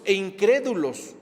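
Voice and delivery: INCRÉDULOS leaned on firmly; emphatic stress. Real, not acted. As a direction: drive home the word "incrédulos". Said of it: "recalco la palabra incrédulos".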